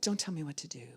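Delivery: put-on whispered childish retort; imitated defiant mutter, very soft; mock teenage defiance. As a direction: hiss it under the breath like a sulky teen. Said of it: "What age group does that?".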